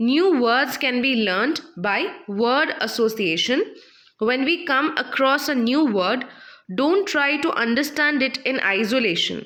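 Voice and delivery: slow, measured reading aloud for the class; slow textbook reading. Shown as a demonstration. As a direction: read each phrase slowly, like dictation. Teacher reads textbook passage aloud.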